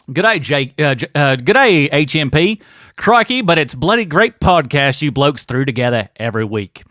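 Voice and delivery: lightly attempted Australian accent, read from a fan letter; bad Australian accent. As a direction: try a clumsy Aussie accent. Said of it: "help you with your terrible accent".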